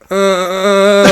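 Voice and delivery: long, drawn-out groan; imitated sleep moan. Imitating his friend moaning on the bedroom floor, long mock moan. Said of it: "And I hear it again".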